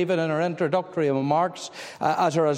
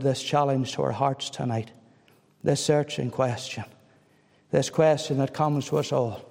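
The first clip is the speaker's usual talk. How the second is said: prayer; 2 semitones lower than usual. Acted. Closing prayer.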